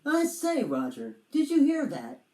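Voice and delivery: hammed-up nervous dragon; alarmed dragon. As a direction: startle at a night sound. Dragon hears sound.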